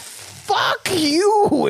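very high, drawn-out parting shot; high-pitched mock fury; mock angry outburst. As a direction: play a hammed-up storming exit. Acting out daughter's parting insult.

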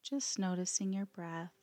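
calm, unhurried yoga nidra guidance with long pauses; guided meditation. Acted. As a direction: let each phrase settle before gently giving the next.

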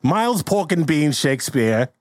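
stagey British character introduction; mock British accent. Improviser playing Shakespeare's boastful son, mock British accent. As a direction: announce the name in theatrical British. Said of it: "You gotta do an accent".

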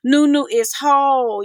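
host reciting her own self-affirmations. Retold or imitated. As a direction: state it like a promise to herself. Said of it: "I had to say".

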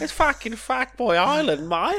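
high, loud delighted outburst; real glee, voice up high and loud; gleeful shout. Real, not acted. Gleeful outburst at show name.

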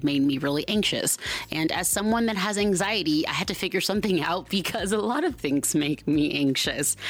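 steady, projected podcast ad delivery; sponsor ad read. Real, not acted. Host recommending a counseling sponsor to listeners, polished ad read. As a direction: pitch the sponsor clearly and emphatically.

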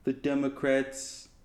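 slow half-hearted impersonation; Donald Trump. Acted. Trying out a cartoon voiceover audition, half-hearted slow impersonation. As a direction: attempt a famous politician, slowly. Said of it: "your best Donald Trump impersonation".

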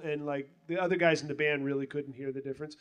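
ordinary talk

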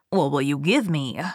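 a hint of a scheming goblin; gravelly sly hobgoblin. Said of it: "said the hobgoblin".

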